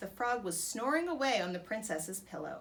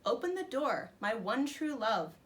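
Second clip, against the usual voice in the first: frog call. Acted. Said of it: "a little voice croaked".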